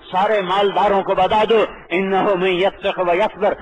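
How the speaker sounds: preacher building a rousing refrain; preaching refrain. Acted. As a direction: proclaim each line like a preacher calling out.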